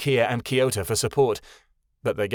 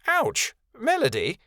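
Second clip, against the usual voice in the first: surprised yelp; 12 semitones higher than usual. A narrator's reading. Owl lands on her head.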